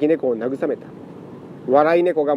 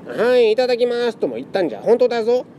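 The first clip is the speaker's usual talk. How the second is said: put-on flustered old man; 7 semitones higher than usual. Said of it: "慌てて".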